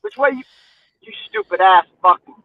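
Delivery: mutter-swear at traffic from the car; road rage. Real, not acted. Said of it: "road rage".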